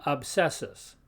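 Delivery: obsessus with B and S both sounded. Shown as a demonstration. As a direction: say obsessus as "ob-sess-us". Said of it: "we pronounce both letters".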